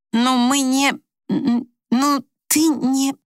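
flustered and ashamed; embarrassed stammer. A narrator's reading. Wife to husband about intimacy: embarrassed stammer.

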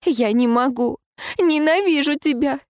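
rising to high tearful hatred; hating her through tears. Acted. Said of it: "заливаясь слезами".

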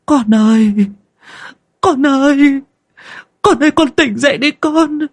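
very high, loud sobbing wail; a mother screaming over her dead daughter; howling grief. A narrator's reading. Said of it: "Bà Vương gào lên". (gào khóc thảm thiết, giọng cao vút)

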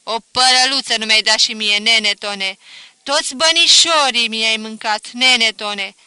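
loud wailing complaint to the dead; crying out. A narrator's reading. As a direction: lament loudly, half grief half grievance. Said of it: "strigă".

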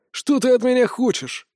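high outraged protest; indignant. Acted. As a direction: demand it, offended. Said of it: "возмутился Локи".

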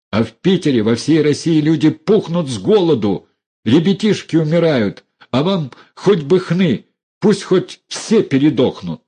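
loud, high, scornful accusation; raging at the well-fed relatives; angry tirade. Acted. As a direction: throw it in their faces. Dunya's tirade against the relatives.

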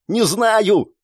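high, strained cry without full volume; yelling over din. A narrator's reading. Girl answers over screams and rumble, high yell. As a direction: call out over screams and crashing. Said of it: "кричит она сквозь вопли и грохот".

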